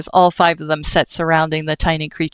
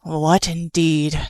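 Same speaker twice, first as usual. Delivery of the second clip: groaning; much slower than usual. Acted. Nightmare groans at Killer, slow and fed up. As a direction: drag it out, fed up. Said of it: "Nightmare groaned".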